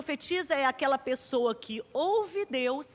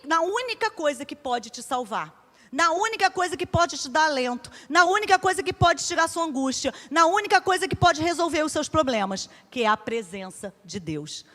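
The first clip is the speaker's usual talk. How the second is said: each "na única coisa" louder, rising to full force; building preaching; 2 semitones higher, 6 dB louder than usual. Acted. Preacher urging the women toward God's presence, getting louder. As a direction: build the list to a fervent peak.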